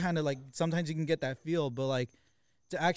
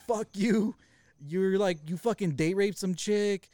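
mock yell, higher pitched, held back in volume; retold yelling; 4 semitones higher, slower than usual. Retelling a shouted accusation down the phone, mock yell. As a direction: re-enact an angry outburst at moderate volume. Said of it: "when I was yelling".

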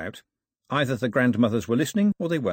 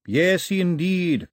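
very slow, drawn-out, raised assent; eager bishop; 6 semitones higher, 3 dB louder, much slower than usual. A narrator's reading. Bishop agreeing to teach doctrine, eager. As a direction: stretch the words with relish.

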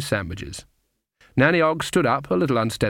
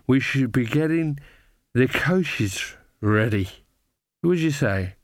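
put-on drunken footman. Tipsy footman suggesting they leave, slightly slurred. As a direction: struggle through it, a touch drunk.

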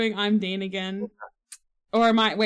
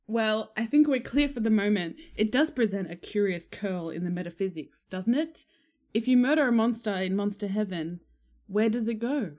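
Castiel impression. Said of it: "That was pretty spot on".

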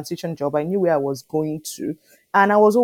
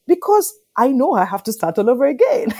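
laughing reply; 6 semitones higher, 4 dB louder than usual. Retold or imitated. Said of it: "I'm like".

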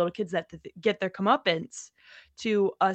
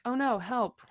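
deadpan; 3 semitones higher than usual. Retold or imitated. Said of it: "with the deadpan".

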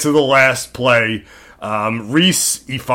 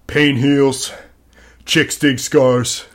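slow, softer, solemn delivery; rousing speech quote; 4 dB quieter, slower than usual. Retold or imitated. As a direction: intone it like a grave pep talk. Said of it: "he's giving a speech".

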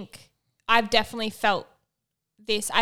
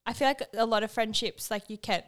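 hiccups; 4 dB quieter than usual. Real, not acted. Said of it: "sorry, I'm hiccuping".

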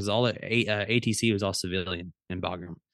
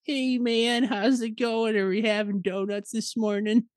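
high, easygoing hippie coworker voice; Roger; 11 semitones higher, slower than usual. Retold or imitated. Coworker on the shittiest day at work, high hippie voice. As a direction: imitate a cheerfully oblivious hippie, pitched up. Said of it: "and he'd be like".

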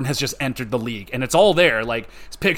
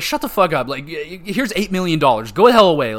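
louder, higher exasperated retort; mock angry GM; 4 semitones higher, 5 dB louder than usual. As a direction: brush the whiner off with a mock outburst. GM snapping back at player.

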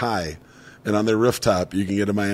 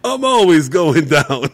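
slow Danza catchphrase; 5 semitones higher, 6 dB louder, slower than usual. Retold or imitated. Repeating Danza punchline.

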